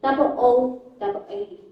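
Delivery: saying double O like a British speaker; British-style phone number, double O double eight; British number reading. Shown as a demonstration. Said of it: "you say".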